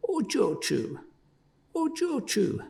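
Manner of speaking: pleading. A narrator's reading. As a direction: plead with her over and over.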